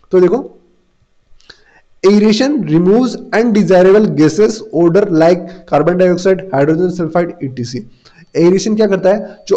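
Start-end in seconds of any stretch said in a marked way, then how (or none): 2.1-7.9 word by word, very slow and clear, for students to copy; slow classroom dictation. Shown as a demonstration. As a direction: dictate each word so the class can write it down. Teacher dictates answer to question.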